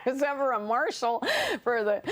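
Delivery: can't stop giggling mid-sentence; laughing. Real, not acted. Telling the interviewer about the US Open, laughing.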